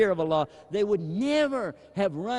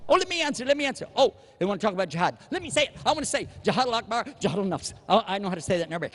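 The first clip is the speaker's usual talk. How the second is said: eager know-it-all; 3 semitones higher, much faster than usual. Retold or imitated. Mocking Muslims who rush to answer.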